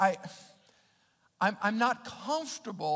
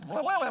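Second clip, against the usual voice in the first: tongue-tangled blah-blah gibberish; babbled noise; 6 semitones higher, 4 dB louder than usual. Retold or imitated. Preacher imitating a first awkward "I love you", babbled noise. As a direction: babble it as if the words tumble out.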